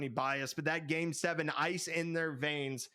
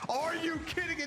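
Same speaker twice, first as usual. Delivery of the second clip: much higher, stressing you; hyped disbelief; 11 semitones higher than usual. Real, not acted. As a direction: shout it in total disbelief. Hyped disbelief after winning goal.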